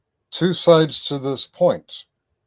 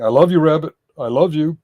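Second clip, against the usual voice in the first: put-on drunken voice; 5 semitones higher, 5 dB louder than usual. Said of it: "in a very drunken voice".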